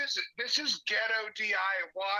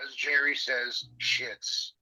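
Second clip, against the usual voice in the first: phone speaker; 3 semitones lower than usual. Real, not acted. Caller heard over phone speaker.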